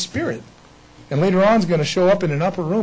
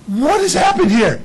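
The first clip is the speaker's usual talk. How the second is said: bewildered Peter; 9 semitones higher, 5 dB louder than usual. Retold or imitated. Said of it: "he's going".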